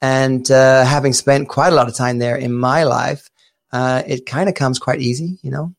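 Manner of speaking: put-on Chicago twang; casual, dubious attempt at American; American accent. Shown as a demonstration. Briton claiming Chicago family roots in an American accent. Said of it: "can you do an American accent".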